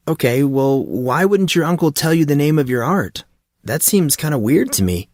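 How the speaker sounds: a hint of an eager, clueless friend; curious young Monson. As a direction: ask it like a naive newcomer. Monson presses about the uncle.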